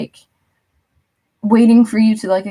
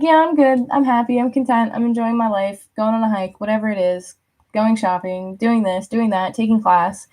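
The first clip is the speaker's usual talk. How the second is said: breezy carefree list; 2 semitones higher than usual. Pretend. Acting out your carefree reply.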